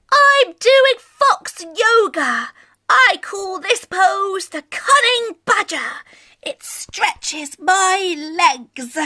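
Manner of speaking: a gentle, pleased little fox showing off a pose; calm Scaredy Fox. Acted. Voices Scaredy Fox in story.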